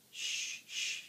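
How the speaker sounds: unvoiced pleading shush. A narrator's reading. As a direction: beg them to hush. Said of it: "begged Grump".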